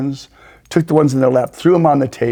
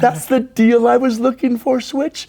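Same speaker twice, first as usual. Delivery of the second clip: loud, high, rousing declaration; mock-patriotic fervor; 10 semitones higher, 5 dB louder than usual. Gambler imagines being buried in U S dirt, mock-patriotic. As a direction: proclaim it with hammed-up patriotic zeal.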